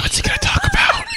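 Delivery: high shrieking laugh-shout. Real, not acted. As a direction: burst out shouting through laughter.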